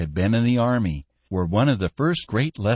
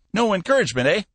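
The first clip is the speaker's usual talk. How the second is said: put-on old Cappy voice; 13 semitones higher, 4 dB louder, faster than usual. Cappy probing.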